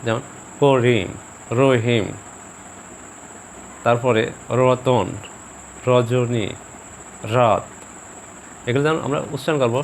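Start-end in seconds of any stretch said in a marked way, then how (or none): 0.6-2.1 করিম, রহিম with a slight vibration on র; slow, separate example words, lightly rolled র in করিম, রহিম; trilled R. Shown as a demonstration. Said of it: "একটু কম্পন সৃষ্টি হবে". 4.6-7.6 রতন, রজনী, রাত with a slight vibration on র; light tongue-tip trill opening রজনী and রাত. Shown as a demonstration. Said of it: "একটু কম্পন সৃষ্টি হবে".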